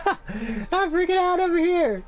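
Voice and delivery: nervous laugh through words. Real, not acted. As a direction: laugh it out, freaked. Scared laughing at game jump.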